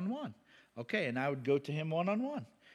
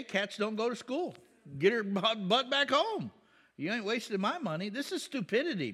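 mock irate rant; 5 semitones higher than usual. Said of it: "I'd be irate, man".

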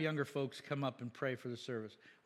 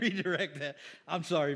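ordinary delivery

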